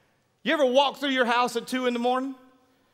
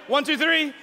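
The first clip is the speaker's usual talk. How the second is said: put-on whiny three-year-old voice; whining toddler; 4 semitones higher than usual. Shown as a demonstration. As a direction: whine it like a small child. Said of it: "say it like a three-year-old, with whining".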